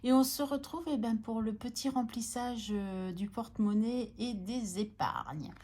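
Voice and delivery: speaking after a dental anesthetic; slightly slurred, numb-mouthed speech. Real, not acted. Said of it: "Si je parle un peu bizarrement".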